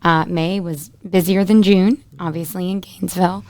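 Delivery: a squeaky, strained voice. Real, not acted. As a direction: talk through a squeaky throat. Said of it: "I don't know why my voice is so squeaky".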